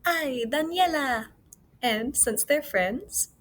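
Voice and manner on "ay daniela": a touch of excited greeting. Acted. Teacher voicing a friend's excited greeting. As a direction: greet a friend with glad surprise. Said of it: "so she's excited".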